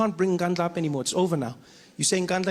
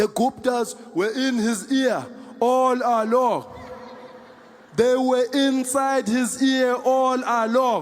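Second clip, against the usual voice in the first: pitched-up, proclaiming politician's voice; 5 semitones higher than usual. Retelling what Julius said about the Guptas: imitating Julius. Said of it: "the way Julius sounded".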